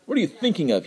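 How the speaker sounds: high, angry shriek; shrieking guard. A narrator's reading. Guard shrieks at the man who struck the tiger, furious. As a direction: scold the fool in alarm. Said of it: "he shrieked".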